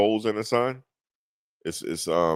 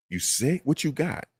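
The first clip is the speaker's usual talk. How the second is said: mock questioner; 8 semitones higher than usual. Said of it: "That's somebody said to me".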